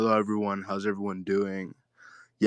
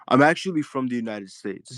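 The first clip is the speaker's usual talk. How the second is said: higher-pitched, foreign-accented English; 4 semitones higher than usual. Real, not acted. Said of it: "not with that accent".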